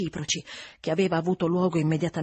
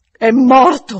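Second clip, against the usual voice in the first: loud, higher, emphatic announcement; grave revelation; 5 semitones higher, 12 dB louder, slower than usual. A narrator's reading. Housekeeper breaking the death to governess, forceful and loud. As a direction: deliver the news with great force.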